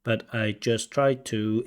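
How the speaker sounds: slow choppy "But I just try to." with a separate beat on each word; staccato. Retold or imitated. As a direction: imitate mechanical staccato rhythm. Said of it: "pronunciation is a bit staccato".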